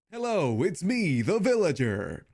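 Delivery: hammed-up British villager greeting; villager impression. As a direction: play the Minecraft villager as a cheery Brit. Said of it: "It kind of sounds like this".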